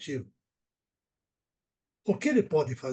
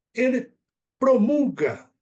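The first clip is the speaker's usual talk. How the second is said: promulga punched high and loud; stress on promulga; 6 semitones higher, 7 dB louder, slower than usual. Real, not acted. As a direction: hit promulga hard and high. Indignant emphasis on the verb. (ênfase forte em promulga)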